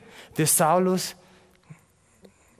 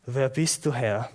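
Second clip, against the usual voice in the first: fearful question; 3 semitones lower than usual. Acted. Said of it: "fragt er ganz ängstlich".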